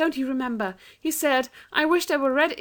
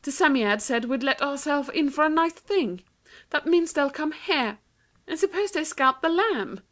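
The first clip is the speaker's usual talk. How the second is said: put-on much higher, anxious girl's voice; alarmed girl; 8 semitones higher than usual. A narrator's reading. Anthea tells Jane the awful truth, alarmed. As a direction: tell your sister in alarm.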